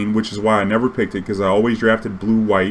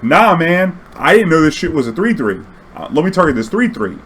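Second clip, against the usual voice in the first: pleading; 6 semitones higher, 3 dB louder than usual. Retold or imitated. Pleading with opponent.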